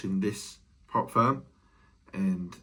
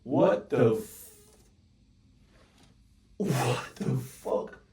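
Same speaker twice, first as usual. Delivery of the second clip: disbelief; much slower than usual. Real, not acted. Price shooting up unexpectedly.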